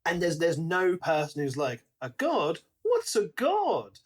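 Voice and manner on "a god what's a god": mock bafflement. Acting clueless character.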